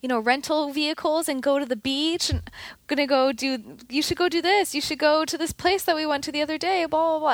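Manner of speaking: high, quick chirpy coworkers; eager coworkers voice. Retold or imitated. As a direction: lightly mimic pushy eager friends. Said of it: "everyone's like".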